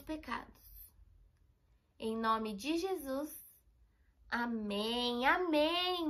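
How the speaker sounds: slow, gentle prayer with long pauses. Acted. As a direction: pray it slowly, phrase by phrase for children to repeat. Leads children in prayer.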